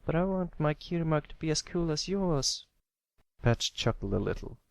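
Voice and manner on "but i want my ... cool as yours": put-on a kid admiring his big brother's mark; envious young colt. Little brother telling big brother he wants a cool mark. Pipsqueak voiced.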